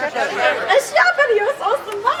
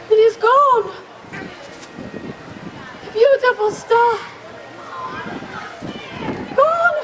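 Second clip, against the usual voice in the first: dismayed; 3 semitones higher, slower than usual. Acted. La Befana finds her beautiful star gone, dismayed. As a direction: cry out in dismay, each phrase left hanging.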